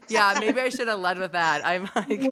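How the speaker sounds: hoarse from laryngitis; rough, worn-out raspy throat. Real, not acted. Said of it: "With my raspy voice?".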